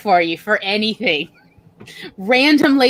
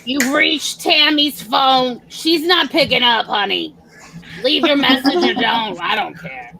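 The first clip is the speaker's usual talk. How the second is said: lightly voiced, slow, bored voicemail greeting; a drawling raspy-throated woman brushing you off; cousin Marilyn voice. Voicemail greeting in cousin Marilyn's voice. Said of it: "sounds like me honestly doing my cousin Marilyn".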